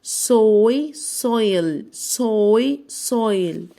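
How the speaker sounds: سويل built up from سوي; blending sounds. Shown as a demonstration. Teacher blends سويل for pupils, clearly. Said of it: "يعني ايه تربة".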